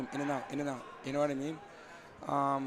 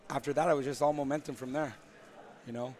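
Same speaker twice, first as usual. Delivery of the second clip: slightly hoarse, tired voice; 3 semitones lower than usual. Real, not acted. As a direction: talk through a voice that's going. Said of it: "I'm sort of losing my voice right now".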